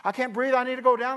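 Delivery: a hint of pleading gasps; breathless wife. Carla telling Reno she can't breathe, mock breathless. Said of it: "And Carla's like".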